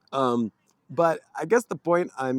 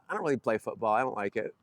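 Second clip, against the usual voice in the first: put-on offhand, understated delivery of a quoted kid; nonchalant kid; faster than usual. Kid telling two adults he dislikes football, nonchalantly. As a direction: toss it off casually, no big deal. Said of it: "very nonchalantly, he says".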